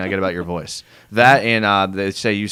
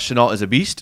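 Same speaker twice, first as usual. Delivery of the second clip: ordinary delivery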